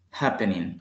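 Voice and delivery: Happening stressed on HAP; stress on first syllable. Shown as a demonstration. Teacher showing the accent at the start, first-syllable stress. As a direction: hit HAP, let pening fall. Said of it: "Al inicio está el acento".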